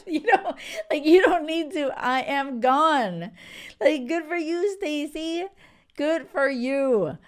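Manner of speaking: high, loud sassy cheer; excited cheering. Real, not acted. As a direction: cheer her on with big excitement. Cheering the ex leaving.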